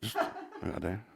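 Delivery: slow, soft, giggling through it; slow laughing demo. Shown as a demonstration. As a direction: drag it out while laughing. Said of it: "One more time".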